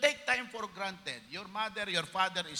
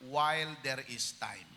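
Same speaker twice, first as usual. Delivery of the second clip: slow title announcement; 5 semitones lower, slower than usual. Shown as a demonstration. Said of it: "Ang pamagat nito ay".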